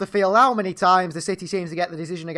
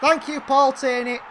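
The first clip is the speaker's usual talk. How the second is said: sarcastic thanks; 4 semitones higher, slower than usual. Real, not acted. Blaming referee after goal.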